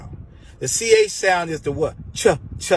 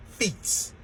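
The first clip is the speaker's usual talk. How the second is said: whispered feet; 2 semitones higher, 10 dB quieter than usual. Shown as a demonstration. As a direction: breathe the word feet as a soft whisper. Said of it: "I said feet".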